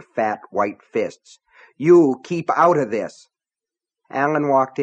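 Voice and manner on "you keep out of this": slow, louder menace; slow, louder, menacing selectman; angry warning. A narrator's reading. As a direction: warn him off slowly. Selectman warns sheriff away.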